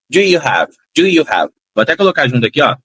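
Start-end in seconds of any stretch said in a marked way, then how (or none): 0.1-1.5 linked in one breath; connected, one sound. Shown as a demonstration. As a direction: run it together naturally. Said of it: "eu não falo pausadamente". (junto, num som único)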